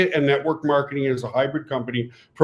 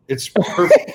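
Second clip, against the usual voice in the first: laughing; 3 semitones higher, slower than usual. Real, not acted. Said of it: "I've been kinda giggling and laughing".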